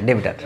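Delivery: ডেবিটার said as de-bi-tar, three syllables; teacher repeating ডেবিটার as de-bi-tar; say debitor. Shown as a demonstration. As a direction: model ডেবিটার with an i sound after the b. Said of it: "মানে উচ্চারণটা এরকমই হবে".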